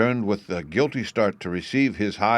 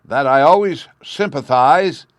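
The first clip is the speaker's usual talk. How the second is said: loud, higher, slow yell; 6 semitones higher, 10 dB louder, slower than usual. Acted. The Chancellor yells over the crowd, loud. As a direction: force it over the noise. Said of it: "yelled the Chancellor".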